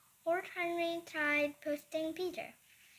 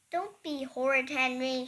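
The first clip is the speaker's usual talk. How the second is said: shout; 5 dB louder than usual. Acted. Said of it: "she shouted".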